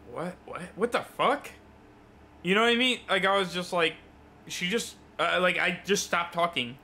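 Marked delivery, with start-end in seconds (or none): 0.1-1.5 stunned disbelief. Retold or imitated.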